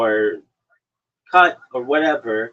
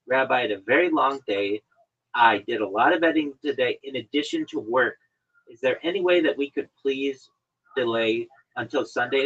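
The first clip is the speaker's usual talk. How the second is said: nicer tone. Retold or imitated. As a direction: ask gently, like a good guest. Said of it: "say this in a nicer tone".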